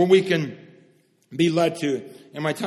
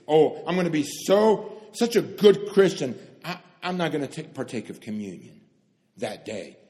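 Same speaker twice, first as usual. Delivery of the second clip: mock pious voice. Mocking self-satisfied Christian.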